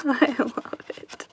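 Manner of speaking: laughing, unvoiced whisper. Real, not acted. Quiet delight.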